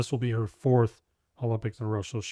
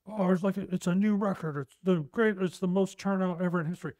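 mocking hype; 7 semitones higher than usual. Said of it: "like, voter turnout, whatever, like".

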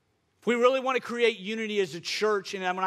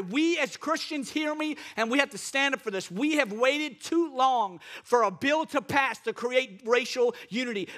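emphatic, urgent sermon delivery; fervent preaching; 3 semitones higher than usual. Real, not acted. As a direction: press the congregation to act, leaning on key words. Preaches to congregation.

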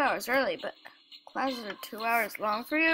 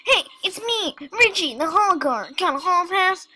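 hall guard voice; 6 semitones higher, 8 dB louder than usual. Acted. Game character hall guard speaks.

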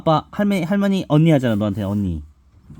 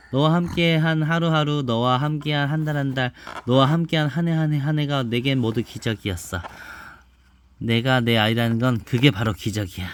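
put-on reading to a child. Mother reads picture book aloud.

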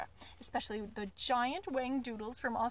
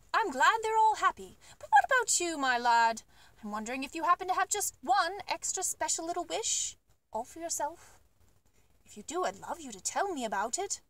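put-on kindly old Duke; 2 semitones higher than usual. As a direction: gently coax the boy's secret wish. The Duke asks Billy's wish.

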